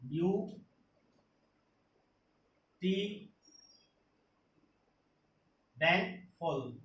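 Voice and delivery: "U", "T", "full" each set apart by long pauses; syllable by syllable. Shown as a demonstration. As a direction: sound out "U", "T", then "full" one piece at a time. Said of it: "There are also three syllables".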